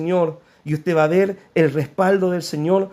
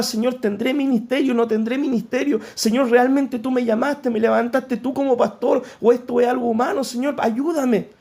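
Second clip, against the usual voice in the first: pleading, pitched up, a hint of tears; retold tearful prayer; 4 semitones higher than usual. Pastor recalling his prayers to the Lord, mild tearful plea. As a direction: relive crying out to God, lightly. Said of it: "Y llorando muchas veces le decía".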